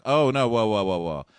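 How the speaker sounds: loud, hasty backpedalling; mock-alarmed interruption; mock protest. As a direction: imitate someone loudly calling for calm. Voicing Nick backing down hastily.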